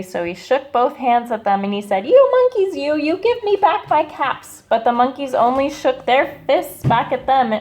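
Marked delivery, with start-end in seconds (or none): 2.1-4.6 higher, louder angry scolding. A narrator's reading. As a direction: shake both fists and yell at them. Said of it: "made the peddler very angry".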